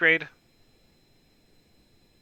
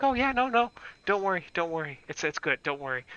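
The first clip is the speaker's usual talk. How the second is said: dismissive staff; 2 semitones higher, 6 dB quieter, faster than usual. Retold or imitated. Staff dismissing the patient, mock breezy. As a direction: hum it off breezily then trail away. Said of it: "They're like".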